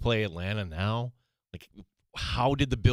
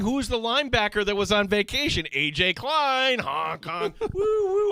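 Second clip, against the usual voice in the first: shouting, higher pitch; 13 semitones higher than usual. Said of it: "I'm yelling".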